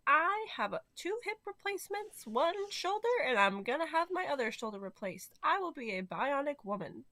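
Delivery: high, excited teacher boasting; science teacher voice. Retold or imitated. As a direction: proudly announce your new parts. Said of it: "she's like".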